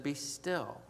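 calm yourself quietly; soft inner voice. Retold or imitated. The Holy Spirit calms the angry father, hushed and soft. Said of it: "the Holy Spirit said".

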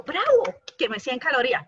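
high, loud mock cheer over a small win; triumphant mock cheer; excited cheer. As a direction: cheer it like a proud little victory. Cheering own workout result.

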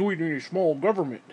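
lightly mocking slogan voice. Ranter parrots small-government believers to ridicule them, mocking.

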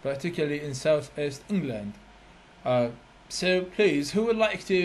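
slow put-on British RP while quizzing students; lightly done British accent. Shown as a demonstration. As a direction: ask the class in your best British accent. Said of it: "راح أحكي لكم هسه بلهجة بريطانية".

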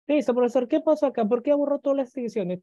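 imitating a student. Teacher voices a puzzled student.

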